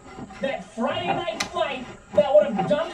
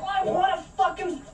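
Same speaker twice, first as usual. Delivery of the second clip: retold shout; 3 semitones higher than usual. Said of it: "I'm like".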